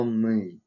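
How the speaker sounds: "мы" with a hard ы; hard vowel. Shown as a demonstration. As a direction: say "мы" hard, not with an ee. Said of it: "твёрдое слово". (твёрдое «мы»)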